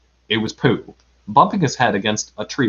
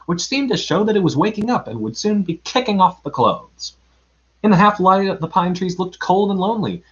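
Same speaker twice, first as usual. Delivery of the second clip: expressive read-aloud storytelling; story narration. A narrator's reading. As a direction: tell it like a children's story. Reads a children's story aloud.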